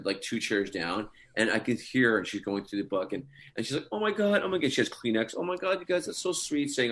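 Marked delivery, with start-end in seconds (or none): 3.9-4.7 high-pitched gushing imitation of an overwhelmed mom-to-be; Rachel. Imitating tearful, sensitive Rachel reading the book. 5.4-6.7 touched mom-to-be, mimicked in a high voice; Rachel. Imitating tearful, sensitive Rachel reading the book.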